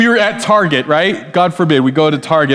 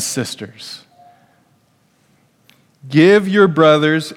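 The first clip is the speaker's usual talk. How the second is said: slow, weighty reading of the verse; slow scripture read for the congregation; much slower than usual. Shown as a demonstration. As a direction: read the verse slowly, leaning on more honor. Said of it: "This is what Romans twelve ten says".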